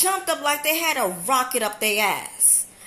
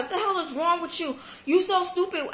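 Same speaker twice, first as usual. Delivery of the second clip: higher, exasperated scolding; retold scolding; 6 semitones higher than usual. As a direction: scold her, fed up. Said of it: "So I was like".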